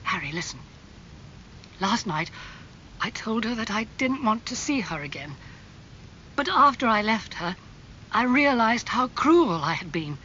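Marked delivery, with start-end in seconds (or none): 1.8-10.2 high-pitched, growing agitation; distraught confession. Acted. Dorian begs Harry for advice, increasingly distraught. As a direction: build from troubled recollection to desperate plea.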